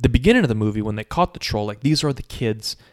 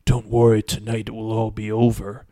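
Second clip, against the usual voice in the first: sneaky. Retold or imitated. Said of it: "you sound kinda kinda sneaky".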